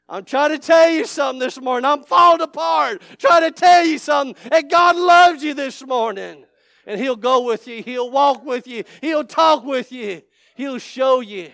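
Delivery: loud, high, shouted preaching climax; full-force preaching. Acted. Pastor shouting to the congregation about the Lord, full-force preaching. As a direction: holler it out like a revival preacher. Preacher falling apart with fervour.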